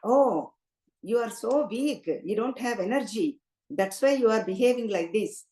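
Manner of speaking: lightly sarcastic king, mocking. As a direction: tease him as a weakling, a mild mock sneer. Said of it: "Then sarcastically he says".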